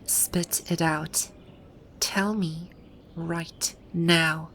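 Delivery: slow, deliberate order; stern demand. Acted. Cornering someone who knows her secret, stern demand. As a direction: press each word home slowly, demanding an answer.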